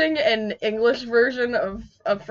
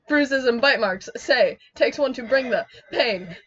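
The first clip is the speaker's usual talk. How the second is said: dramatic spoken-word recital, growing louder; spoken poetry; 6 dB louder than usual. Acted. Reciting verse for a laughing friend, spoken-poetry style. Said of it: "It's like fucking spoken poetry".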